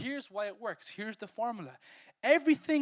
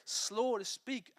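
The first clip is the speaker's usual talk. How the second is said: slow emphasis; much slower than usual. Shown as a demonstration. Preacher stressing verse phrase.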